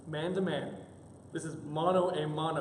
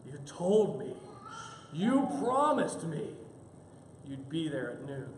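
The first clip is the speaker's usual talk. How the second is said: growling reproach; 2 semitones lower, slower than usual. Acted. Wife scolds husband for missing noon, mock growling. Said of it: "as she growls".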